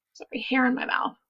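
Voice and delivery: quick whisper off mic; whispered aside. Real, not acted. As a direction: mutter it fast under breath. Whispered aside, hair in mouth.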